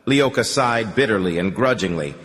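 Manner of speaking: usual speaking voice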